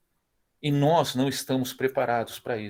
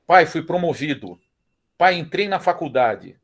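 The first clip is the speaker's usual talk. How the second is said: excited son; 4 semitones higher, 6 dB louder than usual. Retold or imitated. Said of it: "pro filho nosso falar".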